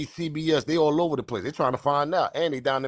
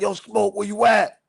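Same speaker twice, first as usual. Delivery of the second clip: a lightly voiced fan calling out, a bit higher; worried fans calling out; 5 semitones higher, 6 dB louder than usual. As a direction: call out to a missing friend, half playful. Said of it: "They're gonna be like".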